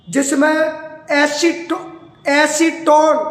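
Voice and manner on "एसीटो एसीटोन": lengthened, emphatic टोन at the word's end; stress on टोन. Shown as a demonstration. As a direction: bring out the ending टोन. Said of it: "टोन की ध्वनि उत्पन्न हो रही होगी".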